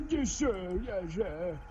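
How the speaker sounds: high, loud, eager character voice; eager detective. Acted. Detective answering the court, high eager voice.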